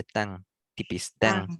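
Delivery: tang said with a thin nasal ng. Shown as a demonstration. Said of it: "Coba ucapkan tang".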